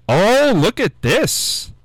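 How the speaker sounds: delighted oh, drawn out and high; excited. Real, not acted. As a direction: gush over the surprise. Pizza delivery arrives at studio.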